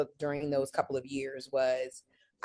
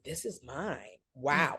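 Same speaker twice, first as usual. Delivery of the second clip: much softer, hushed awe; awed hush; 5 dB quieter, slower than usual. Retold or imitated. Riding the arena escalators, hushed awe. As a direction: breathe it out, amazed and soft. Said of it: "and I was just like".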